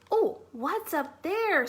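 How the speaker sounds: high, slow little mouse voice; small mouse calling to her friend. Acted. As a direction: call out as a tiny eager mouse. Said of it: "said Mouse".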